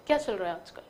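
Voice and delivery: "क्या चल रहा है आजकल?" low and dull; bored, lifeless ask; boring. Shown as a demonstration. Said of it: "boring तरीके से बोल दिया". (बोरियत से, नीचे सुर में)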